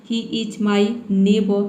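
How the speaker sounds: he is my neighbor, each word slow and separate; very slow example. Shown as a demonstration. Teacher slowly models an example sentence for learners. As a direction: spell out the sentence slowly for beginners. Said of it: "neighbour हो जाएगा".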